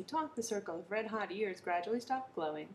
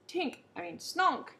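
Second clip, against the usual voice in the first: high, loud flustered correction; shout; 9 semitones higher, 5 dB louder than usual. A narrator's reading. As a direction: blurt it out, catching yourself. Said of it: "he shouted".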